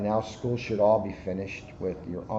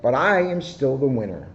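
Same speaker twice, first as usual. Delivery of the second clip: boastful hare; 4 semitones higher, 5 dB louder than usual. Acted.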